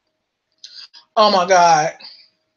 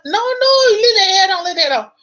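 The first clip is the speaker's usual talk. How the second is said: mock pleading; 9 semitones higher, 4 dB louder than usual. Husband insists again.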